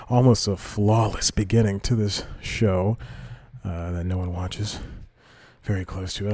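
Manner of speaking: slightly winded talking; catching breath between words. Real, not acted. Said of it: "I'm out of breath for some reason".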